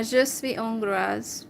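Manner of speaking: "je suis hongroise" in hesitant learner French, "zho swi ongraz". Shown as a demonstration. Telling her chat partner she is Hungarian, in learner French. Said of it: "I can only say that I am Hungarian".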